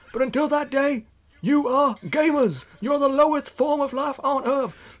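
barking drill instructor, loud and high; drill sergeant. Acted. Drill sergeant speech continues.

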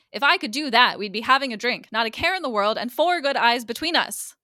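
retold outburst with pushed, emphatic phrases; emotional outburst. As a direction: let restrained feeling burst out, acted. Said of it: "finally breaks into a little bit of emotion".

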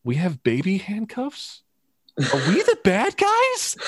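very high, squeaky incredulous questions; hammed-up stormtrooper, climbing into a squeal of disbelief; mock-baffled henchman, pitch shooting way up; bewildered stormtrooper. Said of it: "it's like the stormtrooper's like".

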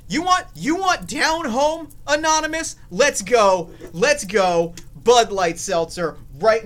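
oversell it like a beer ad. Pretend. Hammed-up beer ad pitch.

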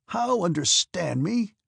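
put-on old prince cries out angrily at his daughter; angry cry. A narrator's reading. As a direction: hurl the words back at her. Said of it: "cried her father angrily".

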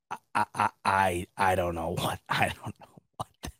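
words collapsing into soft, breathless laughter; helpless laughter. Real, not acted. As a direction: laugh until the voice gives out. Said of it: "'cause I'm laughing".

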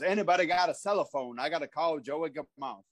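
lightly imitated veteran wrestler; a hint of old wrestler impression; Tony Atlas. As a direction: quote it low, like his famous line. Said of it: "that's a famous line".

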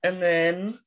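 worn out, fading voice; tired late in a long day. Real, not acted. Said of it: "getting drunker and drunker as we're going on".

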